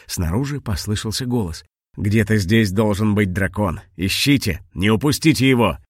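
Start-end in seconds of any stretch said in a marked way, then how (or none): 2.0-5.8 firm man giving orders; lightly voiced stern father; stern searcher. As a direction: command the hunt, building louder.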